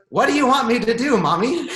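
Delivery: high, loud whiny plea; submissive man. Retold or imitated. Man on hands and knees to bartender, loud high whine. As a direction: beg like an eager servant. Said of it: "And he goes".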